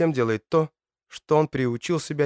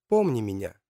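echoing voice heard in the mind; like a faraway voice in his head; distant inner voice. Acted. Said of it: "слышит голос Матильды".

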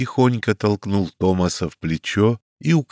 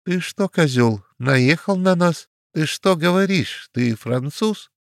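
much higher, outraged yelping; indignant cry; 9 semitones higher than usual. A narrator's reading. Small man confronting the Frenchman, outraged cry. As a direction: cry out in offended disbelief. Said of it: "вскрикнул маленький мулат".

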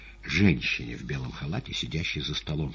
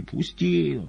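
high, strained plea to be released; crying out; 12 semitones higher, 3 dB louder than usual. A narrator's reading. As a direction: cry out while struggling free. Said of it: "кричал".

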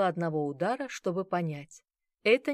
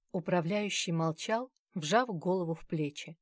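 ordinary delivery, nothing marked

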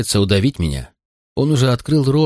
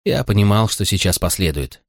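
usual speaking voice

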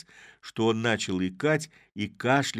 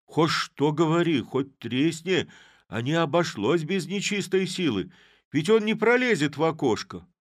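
high and loud, backing away in fright; a spooked villager insisting on evil spirits; frightened; 9 semitones higher, 7 dB louder than usual. A narrator's reading. Frightened kum backing away from the sack, loud and high. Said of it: "пятясь от испугу".

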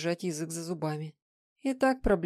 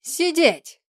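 a much louder, higher furious command; angry bark; 10 semitones higher, 9 dB louder than usual. A narrator's reading. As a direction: bark it like an order to a dog. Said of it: "зло рявкнула".

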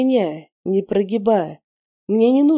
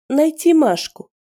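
higher, sneering woman taunting him; mocking woman's voice; 9 semitones higher, 4 dB louder than usual. A narrator's reading. Captive woman mocks the interrogator, sneering. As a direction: scoff at his hypnosis attempt.

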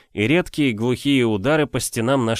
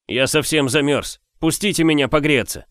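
high, louder plea from outside; freezing stranger; 6 semitones higher, 3 dB louder than usual. A narrator's reading. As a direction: beg to be let in from the cold. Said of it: "сказал неизвестный голос". (замёрзший путник)

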